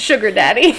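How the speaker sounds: ordinary talk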